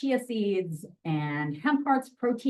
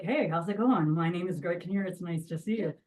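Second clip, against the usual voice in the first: Greg Kinnear voice. Shown as a demonstration. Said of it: "he's like".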